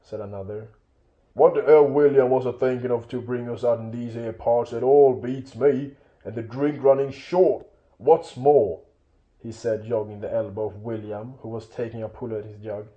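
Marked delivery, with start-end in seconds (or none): 1.3-8.8 rough-spoken troll airing a complaint; grumbling troll. Acted. Troll complaining to William about the food and drink, grumbling.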